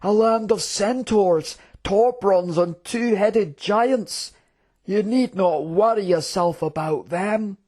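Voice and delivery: high, lilting dismissive general; scoffing. Acted. General dismissing the prince's fears, scoffing. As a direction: wave away the worry with stretched-out disdain. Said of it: "said the general in a scoffing tone".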